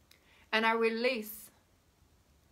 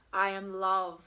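warm affirmation; 3 semitones lower, slower than usual. Shown as a demonstration. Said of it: "say it like that".

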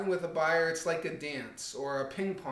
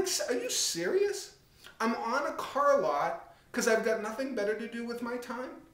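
incredulous retort; 5 semitones higher than usual. Retold or imitated. Mocking salesperson's question, incredulous.

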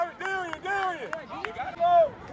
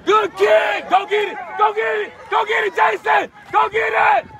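loud cheering yell; sideline shouting; 4 dB louder than usual. Real, not acted. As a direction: shout it across the field. Parent yelling at football game.

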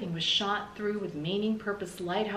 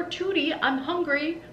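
higher and louder, a demanding holler; husband hollering to his wife that he's hungry; hungry shout; 8 semitones higher, 4 dB louder than usual. A narrator's reading. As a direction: yell that you want your dinner. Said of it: "shouted Mister Tickham".

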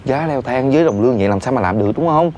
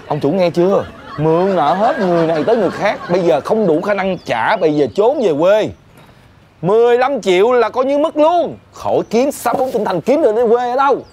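raised, projected relay; mounting, higher-pitched gloating; taunting announcement; 5 semitones higher than usual. Acted. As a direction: rub it in so the boss hears. Taunts boss, relaying news loudly.

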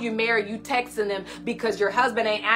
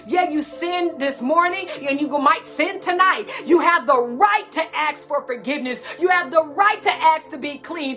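preaching at full force; 3 semitones higher than usual. Acted. Preacher rousing her sisters as daughters of God. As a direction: build the fervour line by line.

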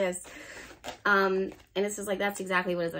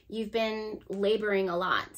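"laboring" leaned on as the key word; stress on laboring. Shown as a demonstration. Reader telling Pisces how hard they worked, stress on "laboring". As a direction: put the weight on "laboring". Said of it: "Emphasis on the word labor".

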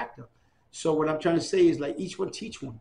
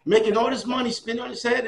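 father amazed; 8 semitones higher, 5 dB louder than usual. Retold or imitated. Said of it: "My father said".

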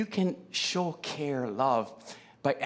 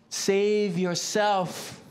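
slow mock taunt; 2 semitones higher, much slower than usual. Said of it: "mocking words".

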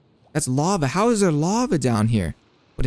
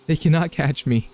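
laughing; 2 semitones higher than usual. Real, not acted. Laughs while escaping zombies.

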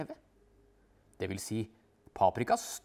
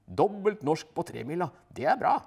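pleased; 7 semitones higher, 8 dB louder than usual. A narrator's reading. Narrator echoing wife's joy.

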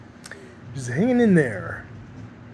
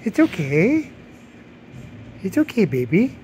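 cooing to a scared pet; 4 semitones higher than usual. Real, not acted. Soothing scared cat.

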